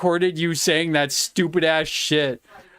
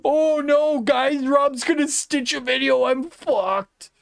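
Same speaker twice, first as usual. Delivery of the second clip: hammed-up fake alarm, higher pitch; mock panic; 6 semitones higher than usual. Streamer to chat, mock terrified wail. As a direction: pretend to be terrified of a video.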